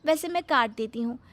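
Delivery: high, syrupy and eager; sugary bahu voice. Acted. Bahu handing her mother-in-law the knife, sweetly eager. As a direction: innocent helpfulness, laid on thick.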